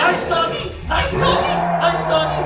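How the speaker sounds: loud, high panicked coaxing; scared pleading. Acted. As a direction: beg the monster in a panic. Creature attacks, pleading it.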